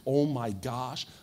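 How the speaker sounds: slow, drawn-out awe of a retold revelation; imitating a woman struck by revelation; suddenly inspired. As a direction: act out a sudden divine inspiration, stretching the exclamation. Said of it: "looked like she was animated by God".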